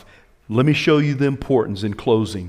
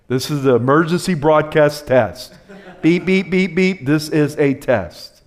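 emergency broadcast imitation; 3 semitones higher, 4 dB louder than usual. Preacher parodies an emergency broadcast test, mock-announcer.

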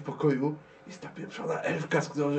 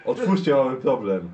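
urgent call through the door; 5 dB louder than usual. Acted. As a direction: press them to open up fast. Calling through the door again. (głośne, naglące wołanie przez drzwi)

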